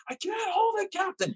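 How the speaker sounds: very high, strained cry of a sailor losing his grip; desperate sailor. Retold or imitated. Movie sailor holding back the water, strained and panicked. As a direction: squeak it out like a panicked crewman at the flooding door. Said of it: "the guy at the beginning of the movie".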